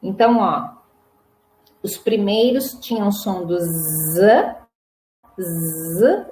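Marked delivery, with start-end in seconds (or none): 3.6-6.2 z held as a low bee buzz; som da abelha. Shown as a demonstration. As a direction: sustain z like a bee. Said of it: "som da abelha". (z zumbido de abelha)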